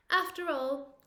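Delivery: usual speaking voice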